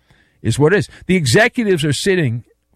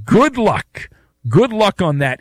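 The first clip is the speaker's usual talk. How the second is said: sarcastic good luck; 3 semitones higher than usual. Real, not acted. Sarcastic sign-off on claim.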